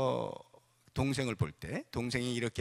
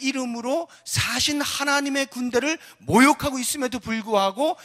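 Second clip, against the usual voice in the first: high, loud sermon delivery; impassioned preaching; 11 semitones higher, 8 dB louder than usual. Real, not acted. Preacher tells congregation David's conviction in the living God, impassioned preaching. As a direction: build to full-force preaching.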